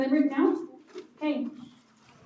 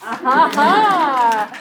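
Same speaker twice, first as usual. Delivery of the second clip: appreciative laugh; 5 dB louder, much slower than usual. Real, not acted. Host reacts to funny poem.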